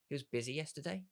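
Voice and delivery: "He was busy yesterday?" ending in a clear upward question lift on "yesterday"; curious tone. Shown as a demonstration. Coach showing how to mirror a friend's words, curious rise. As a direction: echo it back as a genuinely curious question. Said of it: "in a curious tone".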